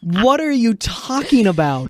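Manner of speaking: flabbergasted at the explanation; incredulous. Real, not acted. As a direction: drag it out in real disbelief. Repeats question in disbelief.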